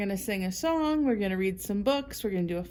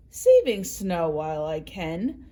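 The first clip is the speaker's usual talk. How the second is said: grumbling rabbit; 3 semitones lower, 5 dB louder than usual. Acted. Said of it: "Rabbit grumbled".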